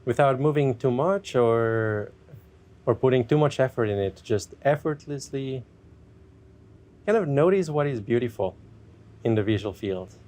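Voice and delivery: unhurried meditation guide with long pauses; guided meditation. Acted. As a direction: ease listeners gently into checking in with themselves.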